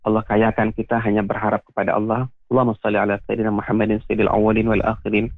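earnest, steady supplication with a repeated ya Rabb; closing prayer. Acted. Ustadz leading radio listeners in closing prayer, earnest supplication. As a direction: pray aloud for the listeners, humbly pleading.

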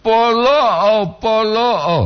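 Polo o with a clear glottal break, slow; with glottal stop. Shown as a demonstration. Teacher shows the glottal stop in Polo o for listeners. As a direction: cut Polo off with a catch before o. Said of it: "Harus dia ada glotal".

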